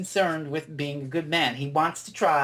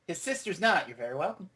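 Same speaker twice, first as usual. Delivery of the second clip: quieter, understated imitation of a calm retort; calm reply; 4 dB quieter than usual. Fan retelling the Doctor's reply to her scream, calm. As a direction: answer her outburst calmly, letting it drop away. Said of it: "he just calmly replies".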